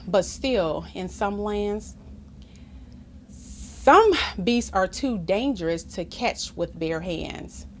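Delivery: measured, expressive picture-book reading; story narration. A narrator's reading. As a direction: read it aloud to children with clear phrasing. Reads story aloud.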